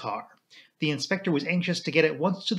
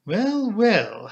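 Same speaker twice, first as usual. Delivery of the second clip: higher, breezy raised voice; breezy, louder; 7 semitones higher, 4 dB louder than usual. A narrator's reading. Colonel rejoins the others, breezy and louder. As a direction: break off briskly and speak up for all. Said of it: "breezily in a louder voice".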